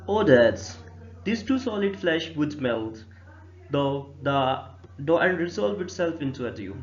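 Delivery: very slow, measured reading of the verse; verse recitation. Acted. Teacher reading Hamlet's first soliloquy to students, slow recitation. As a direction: recite line by line, drawing the words out.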